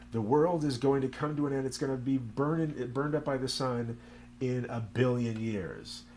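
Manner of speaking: hint of a scientist announcing doom; lecturing scientist. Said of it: "the scientist was saying".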